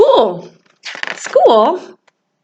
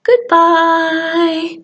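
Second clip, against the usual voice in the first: nice goodbye; 4 semitones higher than usual. Shown as a demonstration. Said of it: "goodbye as nice as we can".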